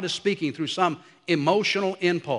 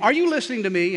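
higher-pitched, mildly pressing question; imitated wifely challenge; 4 semitones higher, faster than usual. Wife checking on glazed-over husband, imitated pointed question. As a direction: press an inattentive husband for attention.

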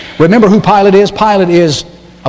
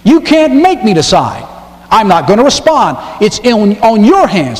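higher, lightly voiced Pilate refusing to choose; defiant Pilate; 6 semitones higher than usual. Preacher lightly voicing Pilate pushing the choice onto the crowd. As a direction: toss the decision back, mildly mocking. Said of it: "and he says".

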